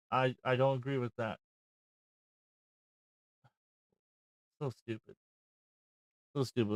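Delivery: quiet, deflated grumble; subdued disapproval. Real, not acted. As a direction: trail down into soft, weary disbelief.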